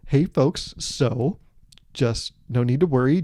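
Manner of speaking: lightly imitated customer-service calm; corporate speak. Crew member to Titanic passengers, mild corporate politeness. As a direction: deliver bad news as a polite staff announcement. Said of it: "the people that talk like that".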